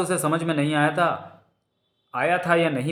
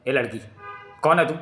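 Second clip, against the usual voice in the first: put-on flaring anger at a girl; gruff challenge, mildly heated; angry; faster than usual. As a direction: angrily demand who she is. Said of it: "कोबी का क्रोध और भड़क उठा".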